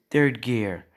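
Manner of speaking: mild anime attack shout; acted battle yell. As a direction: announce the attack with some force. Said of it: "you hear him yell".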